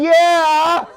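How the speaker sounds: high, drawn-out mock cheer; imitated audience cheer. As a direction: mimic a woman hollering agreement. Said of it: "one woman here went".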